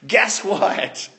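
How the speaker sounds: slow, drawn-out bombshell announcement; reality-show reveal. Retold or imitated. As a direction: drop the bomb like a TV host, stretching it out. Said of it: "just like on a reality T V show".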